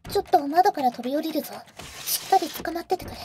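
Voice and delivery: quick, tense and pressing; urgent. Acted. Fleeing the vampire hunter with the boy, urgent. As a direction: hurry him along, danger at the door.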